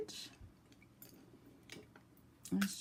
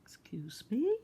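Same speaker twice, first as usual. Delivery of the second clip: yawning; 4 semitones higher than usual. Real, not acted. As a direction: excuse me through a yawn. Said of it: "I'm just yawning away".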